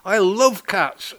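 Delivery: high, drawn-out excited cry; mock scream. A narrator's reading. Woman spotting cat at party, mock scream. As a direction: squeal it high without full volume. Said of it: "screamed a woman".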